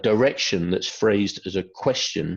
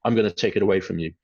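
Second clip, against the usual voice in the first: parent warning; 2 semitones higher than usual. Retold or imitated. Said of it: "I hear parents say to their children".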